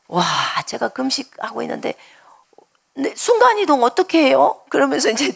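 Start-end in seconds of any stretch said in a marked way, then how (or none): 2.9-4.6 숨죽여 속삭이듯 묻기; whisper. Retold or imitated. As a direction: whisper the question, barely voiced. Recounts asking God quietly. (금식 중 주님께 속삭이며 묻는 목소리)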